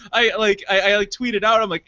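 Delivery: usual speaking voice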